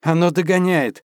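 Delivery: shouting with a note of panic; panicky shout. Acted. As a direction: call out in alarm, panicking. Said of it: "крикнувший с нотками паники".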